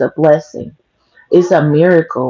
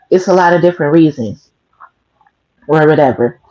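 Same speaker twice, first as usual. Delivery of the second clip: crunching broccoli. Real, not acted. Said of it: "I'm sorry if I'm crunching on this broccoli loud".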